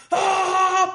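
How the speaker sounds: high, loud mock war cry; battle cry. Mother attacking a spider with a broom, battle cry. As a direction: charge in yelling like a movie warrior. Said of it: "como la película de trescientos".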